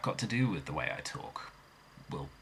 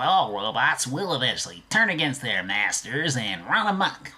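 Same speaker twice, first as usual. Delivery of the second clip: higher, louder, urgent pleading rant; frantic scientist impression; 4 semitones higher, 5 dB louder than usual. Shown as a demonstration. Vlogger demos impressions, loud frantic high rant. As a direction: warn everyone the robots are coming. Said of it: "easy for me to do impressions".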